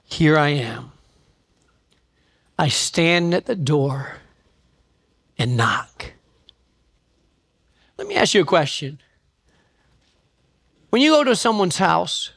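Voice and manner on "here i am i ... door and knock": low, slow, hushed reading of the verse; scripture reading. Acted. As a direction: read the verse low and unhurried, like holy words. Reading the Bible verse aloud.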